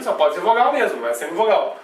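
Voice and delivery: ordinary delivery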